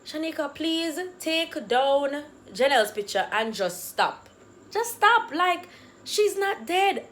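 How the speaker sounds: slow plea rising into high insistence; flustered pleading. Retold or imitated. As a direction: beg firmly, then jump up loud on the denial. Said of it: "so flustered".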